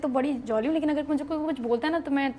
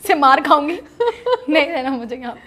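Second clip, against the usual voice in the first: louder retold tearful outburst, half laughing; upset outburst; 7 dB louder than usual. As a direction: replay the upset complaint, raising the voice. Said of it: "میں رونے لگ گئی". (روتے ہوئے بلند آواز میں شکایت)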